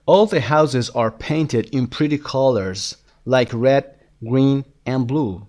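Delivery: very slow, deliberate English read-aloud; measured dictation pace; slow lesson reading. Shown as a demonstration. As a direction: read it out slowly for language learners. Reads lesson text aloud.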